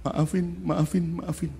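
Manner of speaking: soft apology. Retold or imitated. Daughter shyly apologising to the teacher, soft. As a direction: say sorry shyly.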